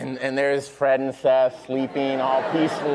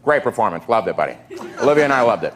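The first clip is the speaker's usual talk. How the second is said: lightly imitated gum-chewer; short phrases through imagined gum; Jason Sudeikis; faster than usual. Co-star praising a performance, hint of chewing gum. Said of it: "without thinking of him chewing gum".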